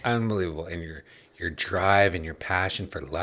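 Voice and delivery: overly sincere sarcastic praise; mock-earnest flattery; sarcastic gushing. Real, not acted. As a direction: lay on the compliments sarcastically. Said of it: "you're so sarcastic right now".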